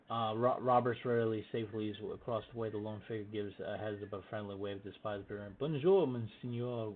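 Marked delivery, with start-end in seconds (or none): 5.6-6.9 put-on slow, raised French-accented call; weary, thick French accent. A narrator's reading. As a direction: call out a drawn-out French greeting, lightly weary. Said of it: "a weary voice calls out in a thick accent".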